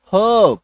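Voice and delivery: हर्ब as "huhb", R left out; silent R. Shown as a demonstration. Teacher repeating the correct form, हर्ब without R. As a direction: drop the R in हर्ब. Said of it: "इसका उच्चारण क्या हो जाएगा".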